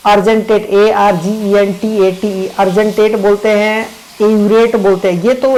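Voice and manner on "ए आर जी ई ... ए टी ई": slow spelling. Shown as a demonstration. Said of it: "बिल्कुल ध्यान रखिएगा साहब".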